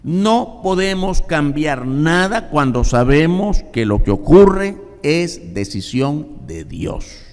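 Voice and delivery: slow, loud insisting; emphatic preaching. Acted. Preacher warning the church, slow and forceful. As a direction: stretch out each word firmly.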